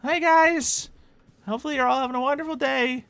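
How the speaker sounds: very high, loud put-on voice; high-pitched cartoonish greeting; Corvin. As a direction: greet the crowd in a high character squeal. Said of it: "I did the Corvin voice".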